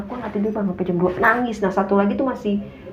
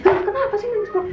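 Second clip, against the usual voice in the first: annoyed outburst; 12 semitones higher than usual. Retold or imitated. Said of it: "Gue kesel, Bang".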